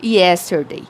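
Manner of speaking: each sentence said slowly and clearly, the word worked stressed; slow model drill. Shown as a demonstration. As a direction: read it like a teacher modelling for the class. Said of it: "Então, eu falo".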